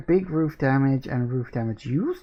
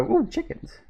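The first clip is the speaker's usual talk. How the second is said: delighted surprise; 14 semitones higher, 4 dB quieter than usual. Real, not acted. Spots chickens in the game.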